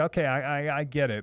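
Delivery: ordinary delivery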